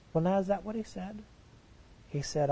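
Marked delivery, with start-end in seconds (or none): 0.1-1.2 quick, higher, mock-doubtful; teasing question. Real, not acted. Preacher teasing the congregation, quick and higher. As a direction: toss it off like a wry challenge.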